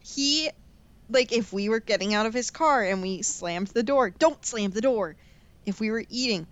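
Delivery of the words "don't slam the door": lightly imitated dad-style order; slow, measured telling-off; grandpa scolding. Grandpa telling kids off as they leave his car, mild scolding. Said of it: "in true dad fashion".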